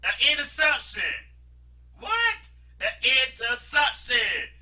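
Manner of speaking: shrieking high disbelief; high, loud mocking disbelief; incredulous. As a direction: squeal in stunned amazement. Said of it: "he was like".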